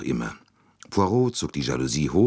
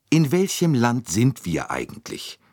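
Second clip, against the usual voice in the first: desperate Mrs Hubbard; 8 semitones higher than usual. A narrator's reading. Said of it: "die verzweifelte Misses Hubbard".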